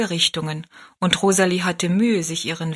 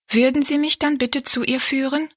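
put-on high little girl; 7 semitones higher than usual. Rosalie asks.

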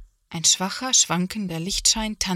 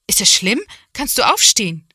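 louder, worried father voice; father's concern; 3 semitones higher, 8 dB louder than usual. A narrator's reading. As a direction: check if she's hurt. Father checks on hurt mother. (Papa fragt Mama besorgt, laut)

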